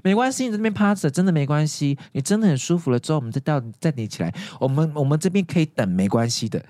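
imitating a nurse soothing a patient; retold "take your time" comforting; reassuring. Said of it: "他们会一直安抚我们的心情".

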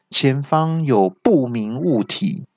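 slow, evenly spaced alert; mock car GPS voice; GPS announcement. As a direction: announce it like a robotic navigator. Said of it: "或是说".

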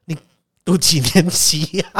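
high, slow rehearsed pitch; mock salesman's sweet opening; salesman greeting. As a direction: mimic the scripted line. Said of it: "就跟我讲说".

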